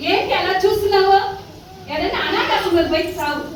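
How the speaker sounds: daughter-in-law throwing out mother-in-law, scornful and harsh; scornful scolding. Acted. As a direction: drive her out with scorn.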